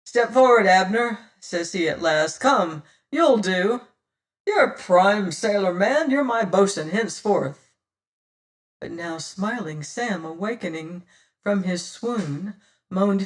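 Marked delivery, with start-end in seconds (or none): 0.0-7.7 loud, firm captain's appointment; commanding pirate captain. Acted. Pirate captain naming a new boatswain, loud and commanding. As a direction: pick your new man with authority.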